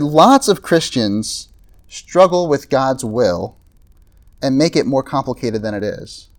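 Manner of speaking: put-on quoting the old pastor slowly, without the Scottish accent; a measured quote of a wise old preacher; slow, deliberate quote. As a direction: lay out each word at a slow, weighty pace. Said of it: "I'm not gonna do the Scottish voice".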